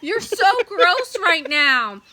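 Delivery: laughing disgust. Real, not acted.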